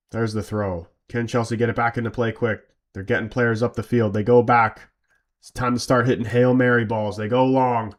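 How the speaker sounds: live match commentary voice; play-by-play commentary. Acted. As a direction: call it like a TV commentator.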